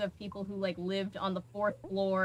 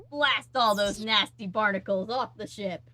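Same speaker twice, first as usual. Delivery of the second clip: slow, louder little pirate voice; 6 dB louder than usual. Retold or imitated. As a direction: ham it up like a small pirate. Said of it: "little pirate voice is like".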